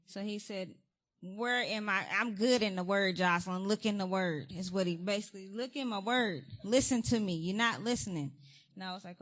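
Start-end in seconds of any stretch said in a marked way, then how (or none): 1.2-8.3 God's rebuke. Retold or imitated. God rebuking her, retold.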